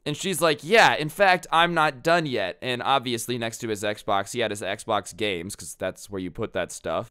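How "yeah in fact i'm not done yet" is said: louder, higher, slow threatening declaration; defiant girlfriend. Retold or imitated. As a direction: warn him she's only getting started. Girlfriend vows more destruction.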